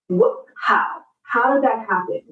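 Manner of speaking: stunned, half-crying disbelief; amazed little cry at her own success. Retold or imitated. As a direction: gasp it out like you can't believe it. Surprised after finally succeeding.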